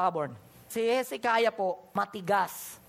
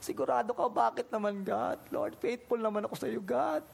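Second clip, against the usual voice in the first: pleading lament; 2 semitones higher than usual. Acted. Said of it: "Hezekiah wept bitterly, like".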